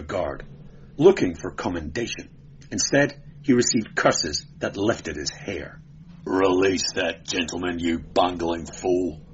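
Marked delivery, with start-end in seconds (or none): 6.2-9.2 swearing angrily. Acted. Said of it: "swore the prefect".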